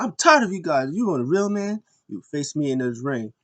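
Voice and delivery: high, loud fed-up callout, easing off; hammed-up wrestler's challenge; mock angry challenge. Imitating Cedric calling out rivals, mock angry challenge.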